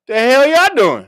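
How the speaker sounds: hammed-up sergeant bursting in; retold yell. Sergeant catching soldiers leaving for a detail, mock shout. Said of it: "comes in and goes".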